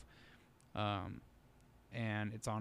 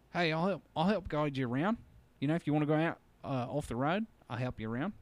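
put-on brighter, louder Australian accent offering help; 5 semitones higher, 6 dB louder than usual. Trucker offering to guide the drivers around, in an Australian accent. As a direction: call out like a friendly Australian trucker. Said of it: "I'll try to do his accent".

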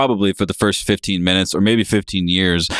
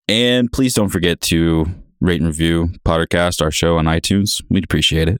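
ad read; 3 semitones lower than usual. Pretend. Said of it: "I've got this really good transition".

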